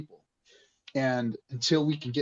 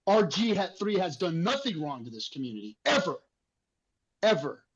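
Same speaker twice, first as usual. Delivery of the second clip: heated; 4 semitones higher than usual. Real, not acted. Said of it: "sorry for getting emotional about it".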